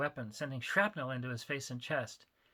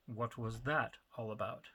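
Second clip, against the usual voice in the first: dispassionate; 3 semitones lower than usual. Acted. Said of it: "asked dispassionately".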